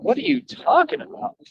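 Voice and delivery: high-pitched disbelieving question; incredulous. Real, not acted. Answering a rival's claim that he revolves around him, incredulous. Incredulous reply to quoted accusation.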